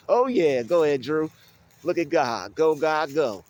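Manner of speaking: high, loud hype-man cheer; real, loud excited shouting. Real, not acted. Cheering himself on.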